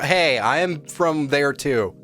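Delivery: usual speaking voice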